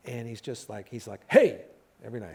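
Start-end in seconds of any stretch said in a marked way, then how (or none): 1.3-1.7 loud, high call across the street; yelling out. Retold or imitated. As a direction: shout to passers-by. Guy yelling outside Canter's.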